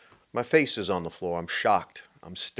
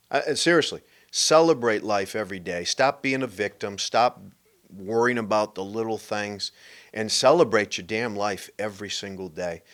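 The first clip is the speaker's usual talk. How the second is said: urgent louder plea; 5 dB louder than usual. Real, not acted.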